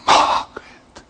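a whisper of a name; tempting whisper. Retold or imitated. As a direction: whisper it like a lure. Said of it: "it would come".

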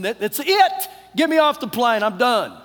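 near freak-out. Retold or imitated. Passenger wanting off the plane, mock freak-out. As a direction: act fed up and on the verge of freaking. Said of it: "I'm on the verge of freaking".

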